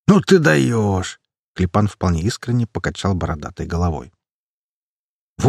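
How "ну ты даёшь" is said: drawn-out slow amazed cry; incredulous exclamation. A narrator's reading. Bearded man amazed at his naive comrade. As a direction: stretch it out in disbelief.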